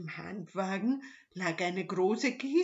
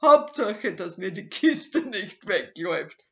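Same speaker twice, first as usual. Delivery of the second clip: loud gloating; 3 semitones higher, 11 dB louder than usual. Acted. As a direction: crow over the prize. Robber gloats over the crate.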